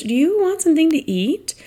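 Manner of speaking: high, bright offer to a busy guest; lightly voiced helpful event planner; friendly planner offering food. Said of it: "and she goes".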